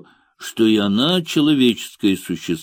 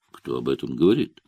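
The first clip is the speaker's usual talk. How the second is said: bored, wooden, hard; 8 semitones lower, 3 dB quieter, faster than usual. A narrator's reading. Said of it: "Скучно, деревянным и жёстким голосом".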